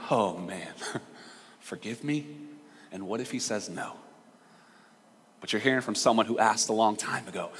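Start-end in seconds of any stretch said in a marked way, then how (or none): 0.1-3.9 hesitant worry. Acted. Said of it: "we're gonna be like".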